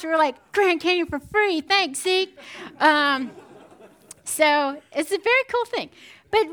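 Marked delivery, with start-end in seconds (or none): 0.5-2.4 pleased. Retold or imitated. Cheapskate family delighted.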